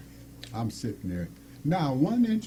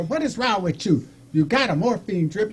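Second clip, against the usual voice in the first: mild mock scolding, pitched up; 4 semitones higher than usual. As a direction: imitate a doctor telling off a patient. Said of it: "he starts scolding her".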